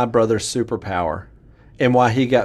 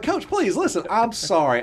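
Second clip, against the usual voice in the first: put-on high, begging boy's voice; desperate pleading; 8 semitones higher than usual. Boy begging the coach not to paddle him, high-pitched. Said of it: "try to plead again".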